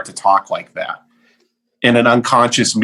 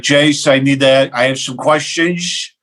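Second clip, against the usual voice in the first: put-on grumpy old client; 3 semitones higher than usual. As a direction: lean on it like a cranky client calling to complain. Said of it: "he's so angry all the time".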